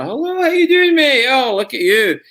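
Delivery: a boisterous Scottish uncle greeting you, Scottish accent. Shown as a demonstration. Actor shows his lounge-lizard character, hammy Scottish accent. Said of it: "people in Scotland have an uncle like that".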